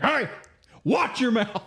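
high-pitched mock telling-off; playful re-enactment of a sharp warning; retold scolding. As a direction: imitate a dad calling someone out. Dad scolds a cussing old man.

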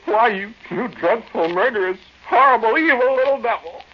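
angry tirade. Acted. Man denounces the demon.

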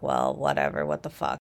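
low, deadpan and fed up; dismissive. Retold or imitated. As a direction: brush it off flatly. Retelling own dismissive reaction.

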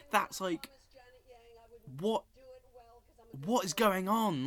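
high, loud incredulous question; stunned that this happened; real bafflement. Real, not acted. Vlogger baffled by the Oscar result, high incredulous disbelief.

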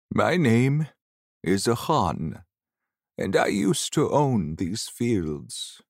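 put-on slow old man introducing himself. Old ghost introducing himself to Seneth, old man voice. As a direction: speak slowly, as an elderly ghost. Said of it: "He had the voice of an ordinary old man".

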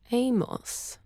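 high, questioning "Amos?" drawn out; savoring the name. Acted. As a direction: roll "Amos?" around like a lozenge. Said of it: "rolling the name around in her mouth".

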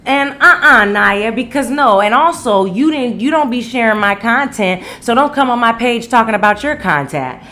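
mildly acted telling-off from an annoyed caller; retold objection.

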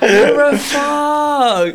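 slow, high, laughing jab; laughing insult. Real, not acted. Teasing her friend after being fooled, slow laughing jab. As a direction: scold him through laughter.

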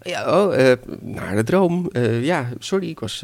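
stammering, apologetic grandmother; flustered excuse. Acted. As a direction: scramble for an excuse. (betrapt, hakkelend excuus)

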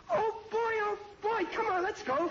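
high, thrilled rush of joy; overjoyed. Acted. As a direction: bubble over with delight. Thrilled she says yes.

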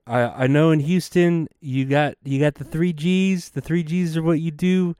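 a hint of Trump at a rally; Trump impression. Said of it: "I need to deepen my Trump impression".

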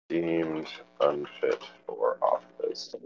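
very soft, slow, low reading; absent-minded mutter. Real, not acted. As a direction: mutter it slowly to yourself. Mumbles while looking something up.

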